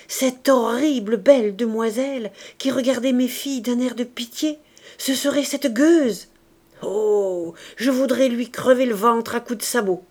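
put-on a mother raging at the girl she envies, loud and vicious; jealous fury. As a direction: snarl out her hatred. Wife raging against the girl.

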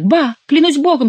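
high, loud dismissive interjection; scoffing exclamation. A narrator's reading. Chicot swears by God at Schomberg, scoffing exclamation. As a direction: toss it out, pitch leaping up.

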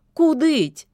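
teasing echo of the domovoi; mocking. A narrator's reading. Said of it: "передразнила домового Любава". (передразнивая, выше и громче)

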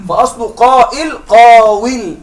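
قاول said slowly as qaawil, waw clearly heard; slow explanatory qaawil for قاول; original form spelled out. Shown as a demonstration. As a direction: set قاول slowly against قائل. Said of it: "الحروف الأصلية قاف واو لام".

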